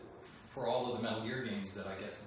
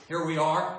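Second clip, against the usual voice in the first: dramatic Snake voice; 4 semitones higher, 10 dB louder than usual. Acted. Dramatic Snake-style line.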